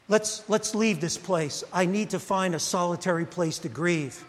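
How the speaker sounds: quiet, heavy with loss; Jesus to his disciples after hearing of the execution, quiet and grieved; grieving quietly. Retold or imitated. Jesus hears John was executed.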